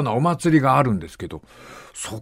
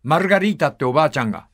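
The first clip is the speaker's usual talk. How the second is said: ordinary delivery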